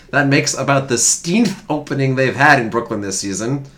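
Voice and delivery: lightly hammed-up old newsreel announcer; old-timey newsreel voice. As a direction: read it like a lightly put-on 1910s sportswriter. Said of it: "I was waiting for the old-timey voice".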